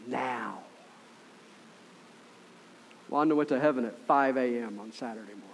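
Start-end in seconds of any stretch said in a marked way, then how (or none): 0.1-0.6 low soft rasp of a dying woman; raspy Now. Retold or imitated. Dying Wanda telling the pastor, low soft rasp. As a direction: breathe the word out like Wanda. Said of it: "she has a really raspy voice right now".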